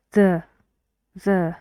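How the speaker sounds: "the" said weak and short, vowel reduced to a quick uh. Shown as a demonstration. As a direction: toss off "the" with no energy, tired. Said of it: "No energy in the vowel".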